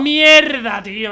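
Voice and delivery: loud high curse; frustrated shout. Real, not acted. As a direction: yell after falling at the end. Falls at the last part.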